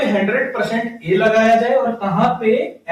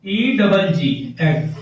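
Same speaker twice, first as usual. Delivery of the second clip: letters of E double जी given one by one, very slowly; spelled out slowly; 3 semitones lower, much slower than usual. Shown as a demonstration. Teacher slowly spelling egg out for the class. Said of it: "spelling the word out for students".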